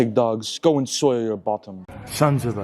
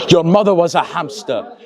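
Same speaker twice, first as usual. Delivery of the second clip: put-on French accent, chuckling through the insult; laughing taunt; 4 semitones higher, 4 dB louder than usual. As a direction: giggle at your own insult. Laugh heard while taunting.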